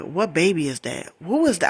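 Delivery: pointed questions, pitch jumping up; demanding retold question. Confronting boyfriend about the baby heard behind him, demanding. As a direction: grill him over the phone.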